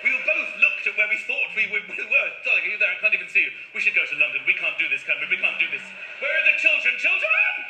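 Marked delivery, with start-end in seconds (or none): 2.4-7.6 panic. Retold or imitated. Panicked in total darkness.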